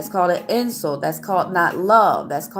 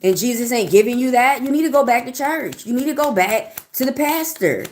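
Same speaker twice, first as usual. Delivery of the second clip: raised, higher pitch, rising anger at trolls; heated scolding; 4 semitones higher than usual. Real, not acted. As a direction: scold them, voice climbing higher. Scolding rude chat commenters.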